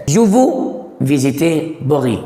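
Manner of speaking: teacher dictates the sentence word by word; slow model reading. Shown as a demonstration. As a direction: read the sentence out slowly for learners. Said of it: "teacher reads model sentence".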